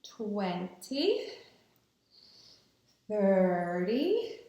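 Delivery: long pauses between calm counts; slow breathing count. Real, not acted. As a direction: count slowly while breathing in. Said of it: "breathe in and we're gonna count".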